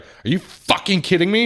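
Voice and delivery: high, loud mock disbelief; mock outrage. Customer hears the repair price, mock outrage. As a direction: fire it back high and outraged. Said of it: "And she's like".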